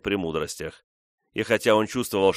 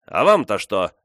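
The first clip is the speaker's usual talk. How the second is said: defiant snap, much louder; 8 dB louder than usual. A narrator's reading. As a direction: throw the question back in challenge. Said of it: "спросил он вызывающим тоном". (вызывающим тоном)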